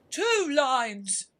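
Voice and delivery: a high, loud, excited cry; eager cry. Acted. Mock Turtle cutting in with a high, loud cry. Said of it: "cried the Mock Turtle".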